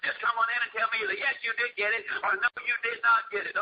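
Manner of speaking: brisk, insistent dressing-down; rapid-fire mock scolding; mock loud boss. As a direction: imitate a boss summoning an employee impatiently. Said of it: "In a very loud voice".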